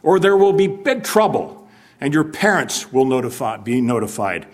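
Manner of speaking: a hint of a principal laying down the law; stern principal warning. Principal warning boys of big trouble, mock stern and loud. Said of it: "said the principal".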